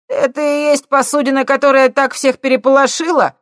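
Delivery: high, loud shout across the water; loud call. A narrator's reading. Punk on a boat shouting at the ship, loud and high. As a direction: yell it from the boat. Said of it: "громко крикнул он".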